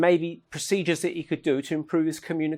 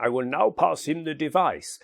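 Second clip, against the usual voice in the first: lightly put-on European accent; Konstantin Radovich. Spirit caller handing the device to a bishop, European accent. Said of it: "in his accent".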